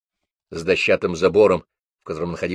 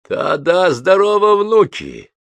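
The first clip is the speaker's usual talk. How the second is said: much higher, louder laughing greeting; hoarse laugh; 11 semitones higher, 5 dB louder, slower than usual. A narrator's reading. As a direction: greet the grandsons with a rough laugh. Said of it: "хрипло рассмеялся старик". (хрипло смеясь, высоко и громко)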